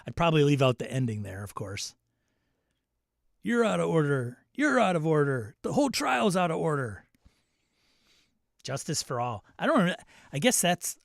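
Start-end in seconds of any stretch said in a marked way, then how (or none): 3.4-7.0 mild Pacino quote. Retold or imitated. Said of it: "Al Pacino as Arthur Kirkland".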